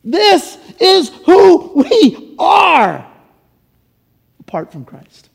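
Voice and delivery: slow, breaking, tearful catch on the words. Real, not acted. Pastor to congregation, choked up and slow. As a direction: let the voice catch as you say it.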